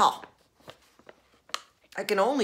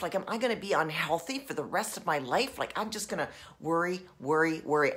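acted worry; 3 semitones lower, 5 dB quieter, faster than usual. Shown as a demonstration. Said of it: "okay, I'm worried".

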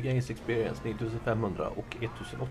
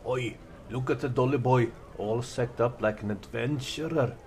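a hint of a jeering street tough; taunting a dressed-up stranger, mildly louder ruffian; lightly voiced taunting thug; 4 dB louder than usual. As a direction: goad him like a swaggering bully.

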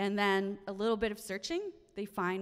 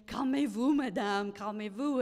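French staff soothing. Retold or imitated. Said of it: "the hotel staff going".

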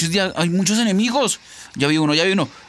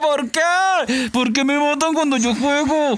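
drawn-out protesting wail; wailing cry; 2 semitones higher, slower than usual. Real, not acted. Player complains at being killed mid-game, wailing cry. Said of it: "Ese grito de hombre no se vale".

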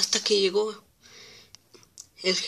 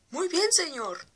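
cheerful engine voice; 8 semitones higher, slower than usual. Acted. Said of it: "dijo Thomas".

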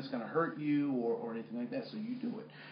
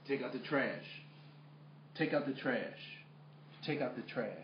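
even, restrained repeated order; unmoved father; 2 semitones lower, 7 dB quieter than usual. Retold or imitated. Dad keeps his protesting son on task, unmoved. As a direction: imitate a dad calmly refusing to be drawn in. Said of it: "He kept me focused".

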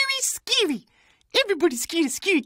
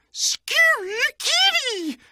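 slow showman reveal, a bit higher; grand announcement; 5 semitones higher, much slower than usual. Acted. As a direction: draw out the name like an announcer. Grand introduction of best friend.

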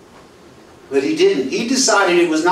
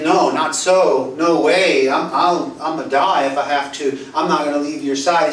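retold impulsive protest, lightly blurted. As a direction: blurt it out as Peter's hasty pledge. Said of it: "quickly, just kind of blurted it out".

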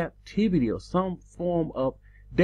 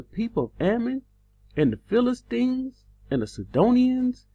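high, rising voice of God listing deliverances; raised, insistent divine rebuke; God's voice; 8 semitones higher than usual. Acted. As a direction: ring out each nation like an indignant God.

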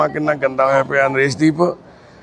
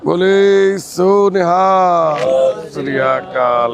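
Sikh rallying call; 3 semitones higher, much slower than usual. Real, not acted. Carer closing a prayer with the jaikara, long ringing call.

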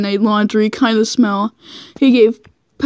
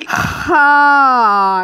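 mock moan; 3 semitones higher than usual. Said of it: "I let out a breathing moans".

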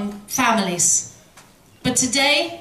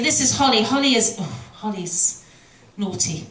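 teasing parent intro. Shown as a demonstration. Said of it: "And then I'd say".

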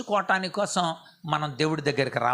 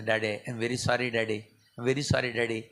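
daughter's tearful sorry; 7 semitones lower, 3 dB quieter than usual. Retold or imitated. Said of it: "మా పాప ఇలా చెబుతుంది".

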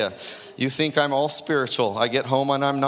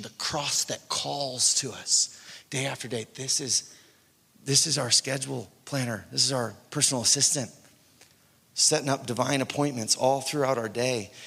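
ordinary talk

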